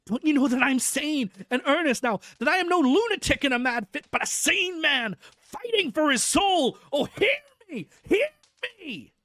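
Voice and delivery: loud, high, desperate begging; frantic pleading. Acted. Madman begging the doctor for release, frantic and loud. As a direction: plead to be let out, voice cracking up high. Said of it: "he got into quite a frantic condition".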